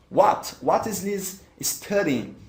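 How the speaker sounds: each word clear and unhurried; slow, careful English. Shown as a demonstration. Teacher to students, modelling the question slowly. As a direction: spell out the question slowly for learners. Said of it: "models the answer for students".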